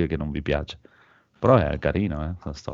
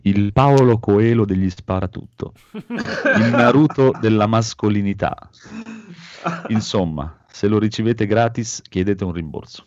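mock review reading; 3 semitones higher, 4 dB louder than usual. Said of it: "Questa recensione dice così".

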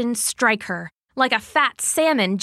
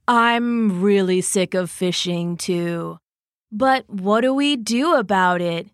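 Grumbles the bear. Acted. Bear Grumbles agrees with Goldie, lightly voiced dopey tone.

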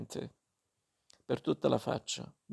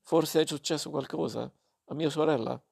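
higher, anxious asking; alarmed question; 4 semitones higher than usual. Acted. Daughter alarmed by her mother's order, anxious. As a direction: fear something happened to family. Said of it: "si alterò in faccia".

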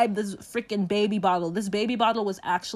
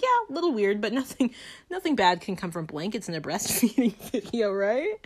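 breezy dismissal; 3 semitones higher than usual. Retold or imitated. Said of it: "I was like".

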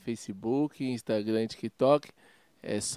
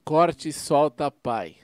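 Corte Solta Pai said slowly; slow, spelled out; 3 semitones higher, much slower than usual. Shown as a demonstration. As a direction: say the channel name slowly. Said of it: "Qual que é o nome".

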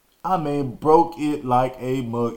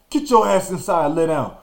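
a higher, pushed command from an angry father; mock stern order; 4 semitones higher, 4 dB louder than usual. Father sending his son inside, a mock stern order. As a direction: bark the kid off to bed.

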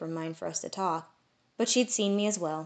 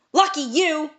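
high, loud sarcastic retort; bitter snap; 8 semitones higher, 9 dB louder than usual. A narrator's reading. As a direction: throw it back in bitterness. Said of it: "he snapped".

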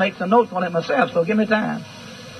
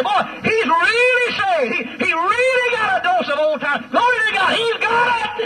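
put-on old preacher's shout; 9 semitones higher than usual. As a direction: cry it out like the old country preacher. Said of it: "He'd say".

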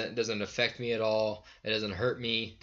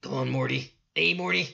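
rough try at cartoon grandpa; lightly voiced mad scientist calling his grandson; Rick attempt; 2 semitones higher, 4 dB louder than usual. Friend practicing a cartoon impression, mock cranky grandpa. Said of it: "I'll practice my Rick real quick".

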